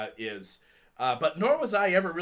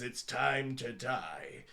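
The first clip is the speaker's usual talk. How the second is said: Chuck Norris line; 5 semitones lower, 7 dB quieter, much slower than usual. Retold or imitated. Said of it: "he looks at the bad guy and says".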